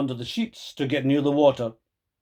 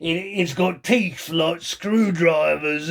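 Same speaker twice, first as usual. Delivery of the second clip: put-on sly old man; 4 semitones higher, slower than usual. Mister Twit teasing.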